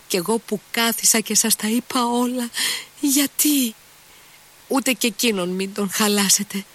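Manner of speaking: high, desperate wail of a frightened maid; pleading servant girl. A narrator's reading. Fenya at Mitya's feet, pleading in a high wailing voice. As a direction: beg on your knees in a high crying voice. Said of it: "Έπεσε στα πόδια του φωνάζοντας".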